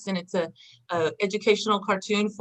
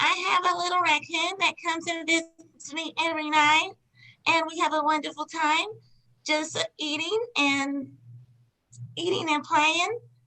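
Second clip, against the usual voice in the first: put-on childlike, high, nasal little-girl voice; 8 semitones higher than usual. Performing a line after being asked to voice a little girl: little girl voice. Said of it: "You're this little girl. You've got the voice".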